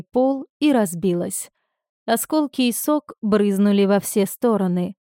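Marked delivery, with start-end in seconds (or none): none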